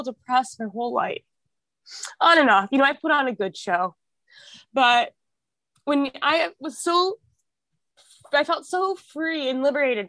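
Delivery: holding back real tears while telling it; tearful, voice rising. Real, not acted. Guest confessing on a podcast, near tears and high. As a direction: voice lifting high as tears come. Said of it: "I'm gonna cry".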